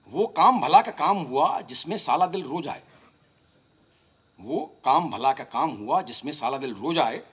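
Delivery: rhythmic, lilting verse recitation; poetry recital. Acted. Poet giving a playful reply to Faiz, rhythmic recital. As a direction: recite each line to a regular beat.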